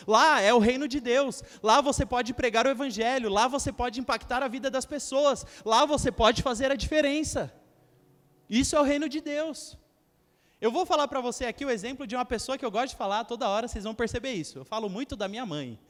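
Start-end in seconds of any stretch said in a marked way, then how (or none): 0.1-10.9 louder, forceful preaching climax; preaching loudly. Real, not acted. Pastor to congregation, loud preaching. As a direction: drive the point home to the church.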